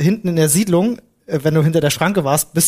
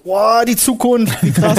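awed; 5 semitones higher, much slower than usual. Retold or imitated. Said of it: "du dachtest dir schon so".

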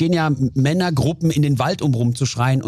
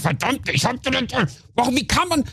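much higher outburst, cut off mid-word; imitating road rage; 8 semitones higher than usual. Yelling at a driver while on the phone, mock fury. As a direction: blow up at another driver. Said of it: "und plötzlich".

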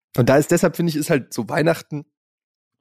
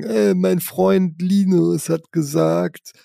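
put-on slow, slightly raised kid voice; child voice; 3 semitones higher, slower than usual. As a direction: lightly voice a small child. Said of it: "ankommen und sagen".

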